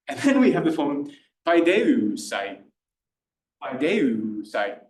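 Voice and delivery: paideusai very slow, each syllable clear; careful classical paideusai; classical pronunciation. Shown as a demonstration. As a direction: spell out paideusai slowly. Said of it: "I'll do a classical pronunciation".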